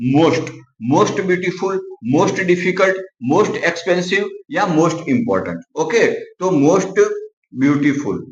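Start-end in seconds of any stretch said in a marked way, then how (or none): 0.1-5.6 slow dictation. Shown as a demonstration. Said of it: "पर most".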